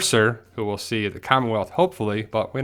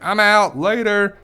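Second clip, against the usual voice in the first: much higher, louder goofy voice; cartoon horse; 9 semitones higher, 5 dB louder, slower than usual. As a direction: voice the fleeing horse as a silly cartoon. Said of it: "The horses are like".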